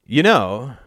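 gently feeling out the subject; delicate. A narrator's reading. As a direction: broach it carefully. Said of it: "said Al delicately".

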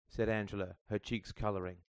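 ordinary delivery

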